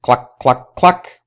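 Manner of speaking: chicken cluck. Acted. Reading to children, the pecking chicken clucks. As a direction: cluck like a busy hen. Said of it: "goes the chicken".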